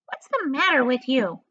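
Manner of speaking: high, demanding aunt. Acted. Aunt Sponge demanding of her sister, high and irritable. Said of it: "Aunt Sponge demanded".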